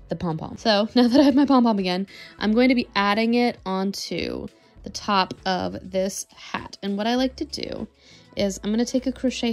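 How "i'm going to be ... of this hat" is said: ordinary delivery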